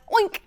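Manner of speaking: short imitated pig oink; cried-out oink. Little bird trying another animal noise, cried-out oink. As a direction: cry out one quick oink. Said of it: "the little bird cried out".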